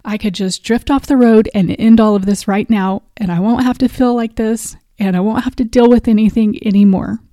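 choked up retelling a dark moment; real emotion breaking through. Real, not acted. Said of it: "ooh, I'm getting a little emotional".

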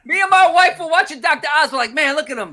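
high, laughing through the words; amused, high-pitched, laughing delivery; real laughter. Real, not acted. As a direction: crack up while telling it. Cracking up over dancing doctor.

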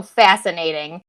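slow, drawn-out "Fascinating."; mock intrigued. Fingers tented over a dull case, mock intrigued drawl. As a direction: savour "Fascinating." like a detective. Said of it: "tent your fingers and you go".

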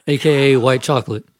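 reeling off names short of breath; running out of air. Real, not acted. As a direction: push the list out on the last air. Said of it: "I'm running out of breath already".

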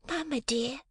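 put-on high, soft little-girl voice; a small girl pleading gently; lisping little girl. A narrator's reading. Little Jane answering her mother, high and meek. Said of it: "lisped the little girl".

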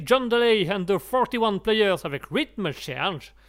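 band name in a careful English accent; slow, deliberate English accent. Shown as a demonstration. French host proudly putting on an English accent. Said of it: "je fais les accents anglais".

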